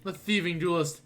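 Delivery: grandly boastful gentleman detective; pompous investigator. Acted. Investigator boasts of recovering the vase, pompous and theatrical. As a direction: announce your scheme like a self-satisfied hero.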